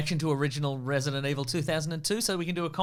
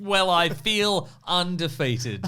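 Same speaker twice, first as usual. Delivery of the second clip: laughing comeback; 5 semitones higher, 5 dB louder, much slower than usual. Real, not acted. Jokey comeback.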